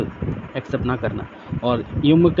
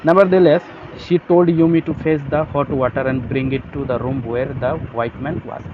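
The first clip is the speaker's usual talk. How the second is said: slow, careful reading of the text; slow reading aloud; much slower than usual. Shown as a demonstration. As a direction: read it out word by word for the class. Reads English text slowly. (धीमे से पढ़ना)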